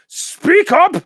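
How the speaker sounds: a huge ancient mountain, high and loud, drawn out; slow booming mountain spirit. Acted. The mountain spirit catches Ameep sneaking past, slow and booming. Whispering Man demands.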